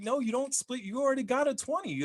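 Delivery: high-pitched mock remonstrating; exasperated objection. Table argues back at the player.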